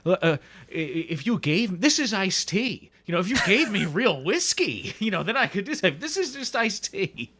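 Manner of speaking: fed up, pleading for real whiskey; frustrated Bill Murray. Retold or imitated. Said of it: "Bill Murray's very frustrated, and he goes".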